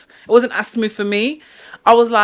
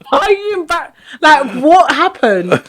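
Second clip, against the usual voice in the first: retold scolding; 5 semitones higher than usual. Retelling the auntie's later scolding.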